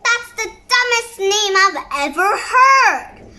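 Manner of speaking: mocking laugh through the words. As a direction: laugh while insulting the name. Laughing mockery of the name.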